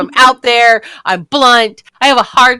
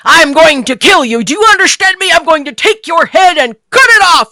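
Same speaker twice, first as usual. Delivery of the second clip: put-on kid threatening; 6 semitones higher, 4 dB louder than usual. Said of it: "they started swearing".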